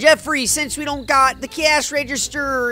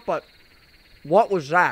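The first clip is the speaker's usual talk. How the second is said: talking while eating, food in mouth; 7 semitones lower than usual. Interrupting the other speaker, talking while eating. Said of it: "I'm eating right now".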